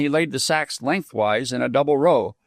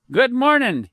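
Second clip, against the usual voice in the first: gruff greeting; 10 semitones higher than usual. A narrator's reading. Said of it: "he saluted".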